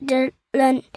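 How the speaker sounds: slow, even robot voice. Shown as a demonstration. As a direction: speak like a space robot, slowly. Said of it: "I can speak in a robot voice".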